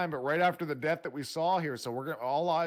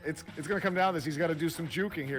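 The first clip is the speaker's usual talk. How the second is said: louder, racing, thrilled race call; excited shout; 6 semitones higher, 5 dB louder than usual. Real, not acted. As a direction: call the clutch finish at full hype. Clutch finish of close race.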